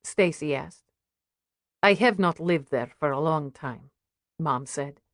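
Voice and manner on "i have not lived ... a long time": put-on mother with a light Russian accent; careful English, a touch of Russian accent. Mother answers the curious waitress, lightly Russian-accented. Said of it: "Is that a Russian accent".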